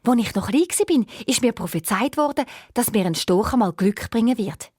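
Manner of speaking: a lonely owl princess complaining of her fate. Acted. Owl recalls a prophecy.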